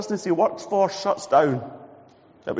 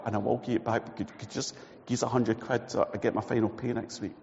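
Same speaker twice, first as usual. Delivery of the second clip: ashamed asking; 3 semitones lower, 6 dB quieter than usual. Acted. Johnny asks for money.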